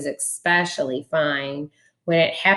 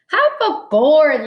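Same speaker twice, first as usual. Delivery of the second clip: laughing; 9 semitones higher, 5 dB louder, slower than usual. A narrator's reading. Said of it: "laughed the bug".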